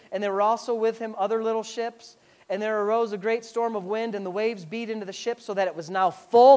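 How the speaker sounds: even, level Bible reading; scripture reading. Acted. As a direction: read the passage aloud in a steady tone. Reads scripture aloud.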